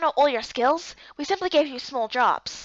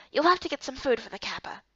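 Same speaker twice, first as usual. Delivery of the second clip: whispering; 5 dB quieter than usual. Acted. Whispered secret instruction.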